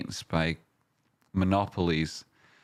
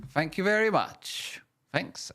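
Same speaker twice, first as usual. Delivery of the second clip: much higher, goofy put-on thanks; high silly voice; 12 semitones higher than usual. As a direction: squeak out the thanks playfully.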